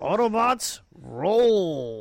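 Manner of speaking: badly hammed-up delivery with roll stretched out. Talking with a co-host about the robot movie, throw in a bad Optimus Prime impression. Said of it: "That was the worst Optimus Prime impression".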